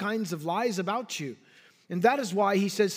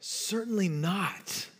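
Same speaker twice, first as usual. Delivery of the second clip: slow, measured emphatic denial; emphatic refusal; 4 dB quieter, slower than usual. Retold or imitated. Paul answering the objector, slow and emphatic. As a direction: draw out "Certainly not" slowly and deliberately. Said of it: "responds with the emphatic".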